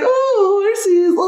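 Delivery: high, loud delighted gasp of horses; mock excited. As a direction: gush as if teasing. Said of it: "And I was like".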